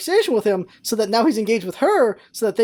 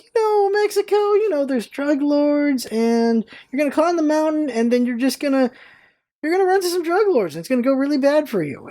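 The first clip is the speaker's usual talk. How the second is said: raised, overblown doom warning to a scene partner; mock naysaying warning; 5 semitones higher than usual. Improv partner warned off his Mexico trip, mock alarmed. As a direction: shoot down his plans with high-pitched mock alarm.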